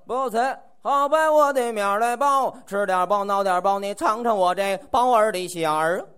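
Beijing bun seller's cry. Retold or imitated. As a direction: call out buns, half-swallowing the words. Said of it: "汉教的怎么叫的。".

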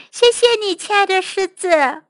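high little mouse voice, mild call. Acted. Happy mouse thanks the lion, calling out. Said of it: "他大喊道".

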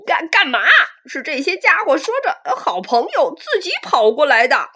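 loud nervous excuse with a laugh; flustered dinosaur. Acted. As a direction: stammer an excuse, caught out. Caught predator makes excuses.

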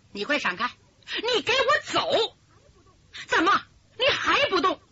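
sharp cry then stubborn, rising anger; spoiled young swordsman stamping and refusing to go home; impatient outburst. Acted. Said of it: "这个武生有点着急了". (武生跺脚着急，任性地嚷)

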